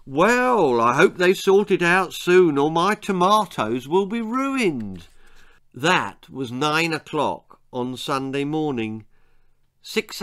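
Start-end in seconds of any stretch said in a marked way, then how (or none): 0.0-5.1 mother's voice. Acted. Mother speaking.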